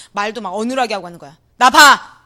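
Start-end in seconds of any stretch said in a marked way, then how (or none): 1.6-2.2 possessed man's voice. Retold or imitated. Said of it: "남자애가 이런 목소리로 막 이러는 거예요".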